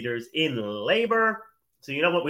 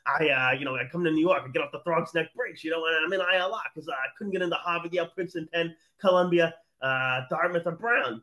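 put-on Long Island accent; 3 semitones higher, faster than usual. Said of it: "my Long Island, you know, I like".

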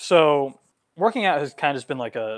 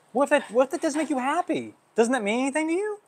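worked up; 11 semitones higher than usual. Real, not acted. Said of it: "I'm getting worked up right now".

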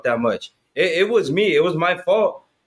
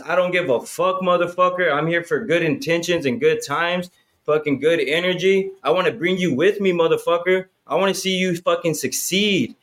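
swaggering hype voice; 2 semitones higher than usual. Retold or imitated. Hyping a hesitant guy to step into his spirit, swaggering. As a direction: fire them up like a fighter who doesn't care. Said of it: "once you can walk in that spirit".

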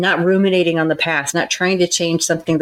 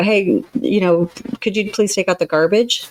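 softer request; 2 semitones higher than usual. Shown as a demonstration. A counselor shows how a polite chore request sounds, soft. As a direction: ask kindly, not demanding. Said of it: "in a softer tone".

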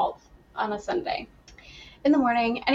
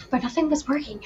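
whisper; 4 semitones higher, faster than usual. Real, not acted. Quiet aside.

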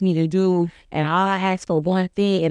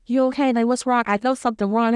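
higher-pitched, lightly acted worried questioning; concerned child; 4 semitones higher, faster than usual. Child checking on upset sister, mildly acted concern.

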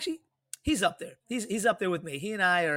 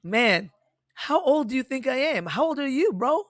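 mock indignant disbelief; 8 semitones higher, 5 dB louder than usual. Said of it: "and so I was like".

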